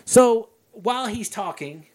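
slow, slightly forceful storytelling; a bit loud. Real, not acted. Podcaster resuming the movie retelling, a bit loud. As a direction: launch back into the story firmly, slowly. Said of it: "sorry for that fucking loudness".

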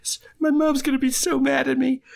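high, strained stammer; Matthew Lillard impression. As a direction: panic like a teen in trouble. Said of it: "Matthew Lillard does not know how to do things quietly".

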